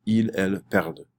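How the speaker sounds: "perdent" ending on a sounded D, silent ENT; final D pronounced. Shown as a demonstration. French teacher drilling subjunctive forms, final D pronounced. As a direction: let "perdent" land on its D. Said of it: "putting emphasis on the D".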